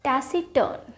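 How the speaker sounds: टैसिटर्न said as "tassi-tun", R dropped; measured teaching demo of टैसिटर्न with a silent R. Shown as a demonstration. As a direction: say टैसिटर्न carefully without sounding the R. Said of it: "आर को silent कर".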